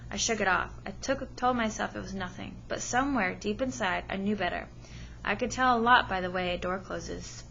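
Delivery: steady read-aloud storytelling to a class; story narration. Acted. Teacher reading a novel to her class, storytelling voice. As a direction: read the chapter to the students, even and clear.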